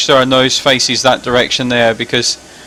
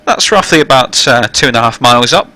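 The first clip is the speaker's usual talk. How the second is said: louder, formal cabin address voice; captain's PA announcement; 3 dB louder than usual. Real, not acted. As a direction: welcome passengers over the intercom. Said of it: "it means the passenger announcement now".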